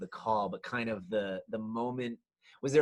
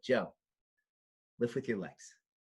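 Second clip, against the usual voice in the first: quiet, low-key, direct delivery. Retelling a line said from a chair outside: imitating a quiet, direct remark. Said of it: "she said it very quietly and just very direct".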